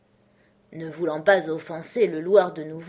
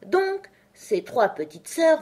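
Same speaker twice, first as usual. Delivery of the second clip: high, slow character voice; resume the tale slowly, pitched up; storytelling dormouse; 10 semitones higher, 4 dB louder, slower than usual. A narrator's reading. Dormouse resuming his story, high and slow.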